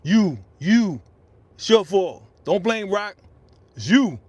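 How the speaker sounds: real heated yelling; loud ranting. Real, not acted. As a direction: jab each line out loud at him. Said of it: "I'm ranting".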